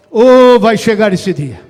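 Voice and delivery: very loud, full-voiced proclamation; booming preacher's promise. Real, not acted. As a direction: open up and cry it out to the whole church. Repete a promessa, mais forte. (promessa bradada, a plena voz)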